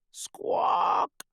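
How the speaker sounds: harsh whispered squawk of alarm; parrot cry. Acted. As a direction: screech like a startled parrot. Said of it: "cries the parrot".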